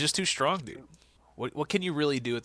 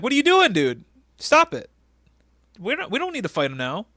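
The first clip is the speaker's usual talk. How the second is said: high, loud mock alarm; Daivari panicking; 9 semitones higher, 6 dB louder than usual. Manager begging his giant to stop, mock panic. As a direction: plead frantically in a raised voice.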